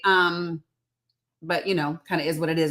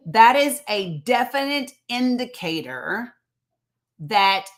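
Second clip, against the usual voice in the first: slow, deliberate, word by word; emphatic restatement; slower than usual. Real, not acted. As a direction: spell it out slowly so it lands. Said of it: "listen, I'm gonna say that part again".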